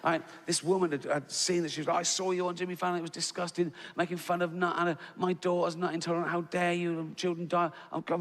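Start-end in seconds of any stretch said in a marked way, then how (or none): 2.0-7.7 quick, higher-pitched indignant ranting; imitated outrage. Comic imitating an angry mum's tweets, rapid indignation. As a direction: rattle off a mock complaint.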